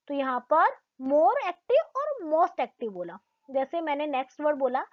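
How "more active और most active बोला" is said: slow, deliberate more active and most active; slow, careful. Shown as a demonstration. Teacher slowly models degree forms for the class. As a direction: spell it out slowly for learners. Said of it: "हल्का सा मैंने pause लेके बोला".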